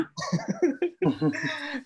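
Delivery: high, airy laugh; burst of laughter. Real, not acted. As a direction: laugh out at the friend's remark. Laughs at the co-host's objection. (หัวเราะเสียงสูงออกมา)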